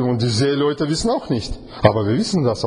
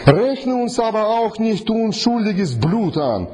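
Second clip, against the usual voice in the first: high, slow pleading prayer; sailors praying; 7 semitones higher, slower than usual. Acted. Sailors plead with God for mercy, high and slow. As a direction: beg God slowly from up high.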